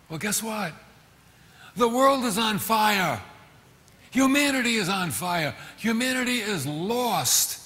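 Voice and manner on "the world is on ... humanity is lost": rising preacher's cry; fiery preaching. Real, not acted. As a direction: thunder it from the pulpit.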